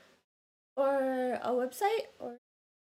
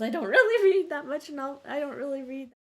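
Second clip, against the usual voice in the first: tipsy; 2 semitones higher, 6 dB louder than usual. Real, not acted. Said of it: "I'm a little tipsy right now".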